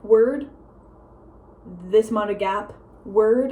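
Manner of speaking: single words set apart by pauses; slow talker. Retold or imitated. Showing how grandpa left gaps, slow and spaced out. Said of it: "he was talking so slow".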